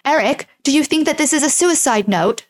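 put-on terrible German accent. Host voicing Monica asking Eric about the note, terrible German accent. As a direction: attempt a clumsy German accent. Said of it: "that was a terrible German accent".

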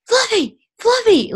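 high, loud cry of a name; imitated yelling. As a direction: call out like the panicked sleepwalking cousin. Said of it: "is yelling Fluffy".

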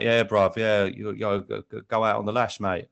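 lightly mimicked London hooligan slang; a hint of a matey London lad; Green Street hooligan. Imitating hooligan characters from the film, lightly voiced hooligan. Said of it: "there's some characters in Green Street who are like".

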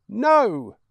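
high, loud defiant no; child's shout. Acted. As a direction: cry it out like a scared boy. Boy refuses to leave mother.

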